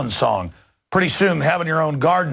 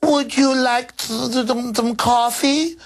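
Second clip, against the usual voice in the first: high, slow, halting fake Venezuelan accent; mock Venezuelan accent; 9 semitones higher, slower than usual. Condescending boss offering Venezuelan staff coffee, mock Venezuelan accent. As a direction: stumble along in a put-on Venezuelan accent. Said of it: "I've got people here in my office from Venezuela".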